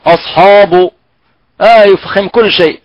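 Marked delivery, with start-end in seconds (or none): 0.1-0.9 أصحاب with thickened hamza and ح; imitating wrong reading. Teacher repeating the wrong heavy reading. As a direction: overdo أصحاب, all heavy. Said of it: "فيفخم الهمزة ويفخم الحاء".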